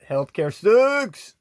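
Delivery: high, loud, drawn-out catchphrase; shouted catchphrase. Acted. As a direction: belt it out slowly as a sign-off. Signature sign-off catchphrase.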